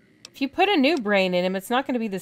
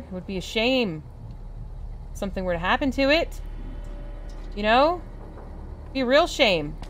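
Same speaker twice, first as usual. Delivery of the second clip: smiling threat. Pretend. Veiled threat over shiny item.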